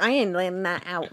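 lightly put-on American accent. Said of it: "That's an American accent".

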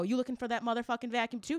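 quick, rising question to a fellow shopper; retold question. Shopper asks another lady about the vacuum, retold question. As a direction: ask it fast, lifting at the end.

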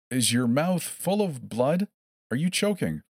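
sing-song quizzing. A narrator's reading. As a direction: ask it like a cheerful game. Captor quizzing cheerfully.

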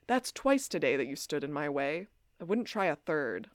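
quietly ominous, retold threat; ominous warning. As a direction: deliver a low-key mock warning. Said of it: "Damon ominously says".

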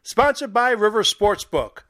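upbeat radio ad read; booming prize announcer. Acted. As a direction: sell it like a contest promo. Recorded football contest ad read.

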